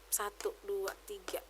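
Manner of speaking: counting under her breath; real low whisper while tallying. Real, not acted. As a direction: whisper the numbers as she recalls.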